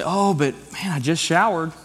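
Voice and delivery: light impression of a reluctant kid making excuses; imitating complaining kids. Voicing his kids' excuses.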